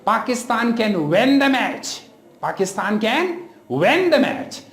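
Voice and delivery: "win" said with an open e, like "wen"; short i in "win" swapped for e; mispronounced vowel. Shown as a demonstration. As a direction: say "win" as "wen", imitating the error. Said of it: "I have heard people saying".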